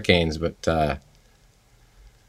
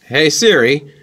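talking to voice assistant; 5 semitones higher, 3 dB louder than usual. Acted. Requesting song from assistant.

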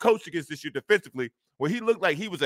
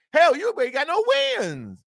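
higher and louder, worked up; heated outburst; 9 semitones higher, 5 dB louder than usual. Real, not acted. Host mocking the winless coach, heated loud outburst. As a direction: let the frustration burst out.

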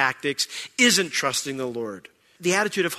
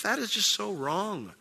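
quiet inner thought; 6 semitones higher, 6 dB quieter than usual. Retold or imitated. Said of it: "I just thought to myself".

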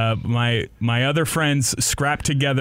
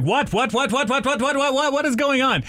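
rapid repeated whats climbing to a high, baffled question; confused what; 12 semitones higher than usual. Retold or imitated. Woken by girlfriend hitting him, high bewildered whats. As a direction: keep asking, more lost each time. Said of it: "And I'm like".

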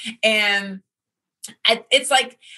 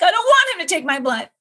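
higher, louder insistence; firm request; 9 semitones higher, 3 dB louder than usual. Retold or imitated. Refusing the rough blood-taker, raised voice. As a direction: put your foot down, pitched up. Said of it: "I had to be like".

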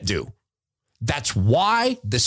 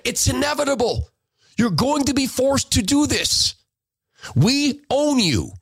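mock menacing villain; 9 semitones higher than usual. Voicing the coercers' threat.

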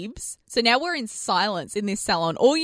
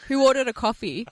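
deadpan. Retold or imitated. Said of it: "Just deadpan".

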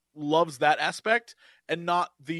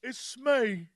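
higher, confused mock-British voice; halting, hammed-up bad British accent; terrible British accent; 5 semitones higher, slower than usual. Host playing a confused Mark for co-hosts, terrible British accent. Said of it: "his terrible British".

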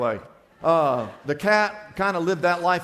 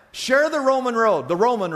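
preaching emphasis; 7 semitones higher, 8 dB louder than usual. Real, not acted. Preacher driving home a point.

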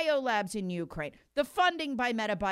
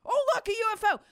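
mock surprise; 9 semitones higher, 3 dB louder, faster than usual. Mocking officials' fake surprise.

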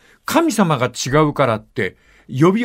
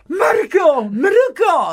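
mock tearful cry; slower than usual. Grandma Margarita crying to her dead father, mock tearful shout. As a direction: cry out the name like a weeping grandma, hammed-up. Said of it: "泣くんだってよ".

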